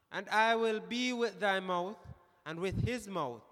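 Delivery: strong stress on "thy" and "his"; emphatic reading. Real, not acted. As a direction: set "thy mouth" against "his mouth" with emphasis. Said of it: "you put the emphasis there".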